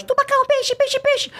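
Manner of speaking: very high, squeaky little shark voice; cute cartoon voice. Shown as a demonstration. Dubber demos his voice for a little cartoon shark, cute and high. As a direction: squeak it like an adorable baby shark. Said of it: "achei ele muito fofinho pra colocar uma voz assim".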